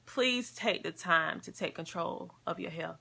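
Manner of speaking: soft, tight voice about to cry; squeaky crying voice. Real, not acted. Vlogger to viewers, real tears making her voice squeaky. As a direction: squeeze the words out through tears. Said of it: "Now my voice getting squeaky".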